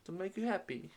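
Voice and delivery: lightly voiced meek pleading; pleading suitor. Admirer begging not to be kicked, meek and imploring.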